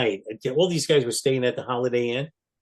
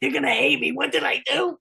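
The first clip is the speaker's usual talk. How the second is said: high, loud fretting; hammed-up worried outburst; mock panic; 14 semitones higher, 4 dB louder than usual. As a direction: wail it as if everyone will turn on you. Retold panic at star's angry reaction.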